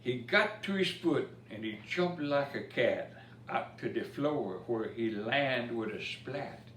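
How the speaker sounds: lively storybook reading in Cajun dialect; rhythmic bedtime-story recital; reading a rhymed story. A narrator's reading. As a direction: read the verse to children with a bounce. Reads Cajun Christmas poem aloud.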